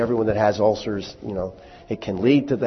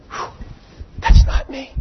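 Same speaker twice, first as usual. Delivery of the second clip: much higher, louder mock sigh of relief; mock relieved churchgoer; 7 dB louder than usual. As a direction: play the smug listener who feels off the hook. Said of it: "some of you going".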